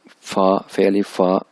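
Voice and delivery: फा as an f plus long aa; pronouncing F as फा. Shown as a demonstration. Teacher showing how Chinese F is read, pronunciation demo. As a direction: spell out फे अलिफ, then फा. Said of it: "इसको पढ़ते हैं".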